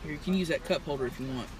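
talking around a cigarette; cigarette in mouth. Real, not acted. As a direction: lips clamped on cigarette. Seen 0: Driver talks with a cigarette held between her lips throughout.

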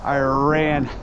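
breathless after running; winded from the sprint; out of breath. Real, not acted. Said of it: "God, I'm out of breath".

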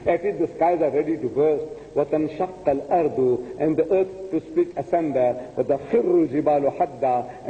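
rapid Arabic Quran recital; Quranic recitation. Acted. Preacher quoting the verse to the audience, quick recitation. Verse lines interleaved with translation.

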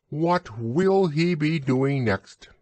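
high, slow squeaky imitation; mother mimicking a little piglet. A narrator's reading. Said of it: "imitating Piglet's voice, too".

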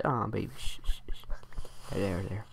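put-on soft, low baby-soothing murmur; quiet, low pretend comforting; soothing hush. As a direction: shush and settle a baby gently. Hushing a baby to sleep.

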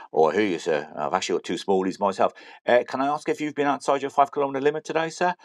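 lightly hammed English copper accent; English-accented policeman questioning a driver; put-on English accent. Guard asks driver about the limit, mock English accent. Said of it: "the shit English accent".

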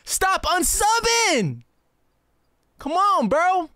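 slow, drawn-out whining plea; whiny plea. Real, not acted. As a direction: stretch it out, begging chat. Pleading with chat, subs dropping.

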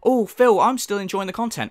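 mock supportive viewer; lightly imitated fan. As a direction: lightly put on a loyal fan. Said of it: "like, people going".

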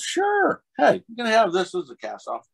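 high, loud, eager offer; imitated director. Director offers actor a souvenir from set, high loud readiness. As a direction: pipe up loudly as the obliging director. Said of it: "And he goes".

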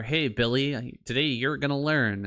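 a hint of keen classroom voice; personalized AI teacher. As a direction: greet one pupil with mild mock enthusiasm. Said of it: "each individual person has their own".

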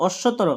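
"অশ্বতর" run together as one word; no gap. Shown as a demonstration. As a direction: say "অশ্বতর" in one unbroken piece. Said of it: "কোনো gap থাকবে না".

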